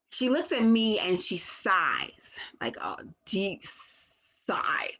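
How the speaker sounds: hushed, nearly voiceless telling; whispered. Real, not acted. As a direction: whisper it as if not to disturb. Whispered narration of daughter's sigh.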